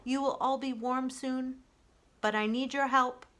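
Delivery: calm the freezing animals; reassuring robot. Acted. Roz calming the cold crowd, steady reassuring robot voice.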